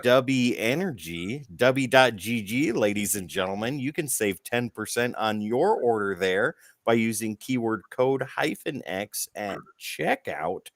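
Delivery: upbeat sponsor pitch, ladies and gentlemen; ad read. Acted. Host reading the sponsor ad to viewers, upbeat ad read. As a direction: sell the energy drink like a show host.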